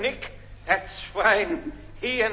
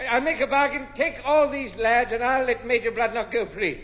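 raised voice, pitched up to be heard; speaking up; 3 semitones higher than usual. Acted. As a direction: repeat the offer, projecting it. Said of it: "Speak up, speak up".

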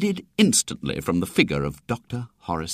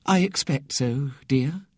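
gentle; 4 semitones higher than usual. A narrator's reading. Remorseful sister answering her sick brother, gentle. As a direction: soothe with a touch of tenderness. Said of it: "said Ethel gently".

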